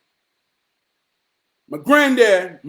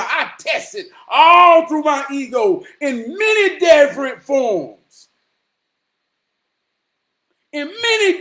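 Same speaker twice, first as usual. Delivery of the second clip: impassioned declaration. Real, not acted. Rousing declaration of his ego.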